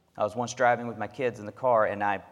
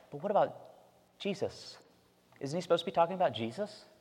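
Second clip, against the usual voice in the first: put-on child's voice; 6 semitones higher, 5 dB quieter, faster than usual. Dad voicing his young son.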